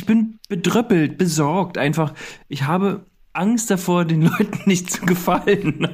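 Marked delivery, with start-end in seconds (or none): 2.5-5.9 trying not to laugh; stifled giggles. Acted. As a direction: giggles breaking through the words. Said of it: "Du bist persönlich beleidigt jetzt".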